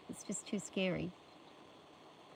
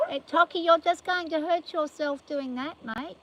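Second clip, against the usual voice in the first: calling out to horse; 8 semitones higher, 8 dB louder than usual. Real, not acted. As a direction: call across the yard to stop him. Calling to horse pawing gate.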